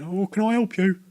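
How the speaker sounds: new trainee greeting a customer, high and eager; nervous trainee. Retold or imitated. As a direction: pitch it high and keen. Voicing nervous shop trainee.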